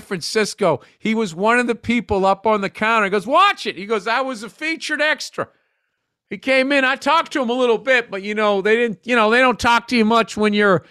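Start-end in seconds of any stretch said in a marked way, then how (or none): 3.3-3.8 high mock Southern cabbie; quick put-on Southern twang, high; Southern accent. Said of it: "the most hardcore Southern accent". 4.1-10.8 high, lightly put-on Southern cabbie voice; a hint of mock Southern, higher; Southern accent. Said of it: "the most hardcore Southern accent".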